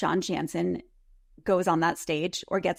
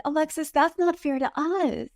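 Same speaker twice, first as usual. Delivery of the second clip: pleading co-stars; 6 semitones higher than usual. Retold or imitated.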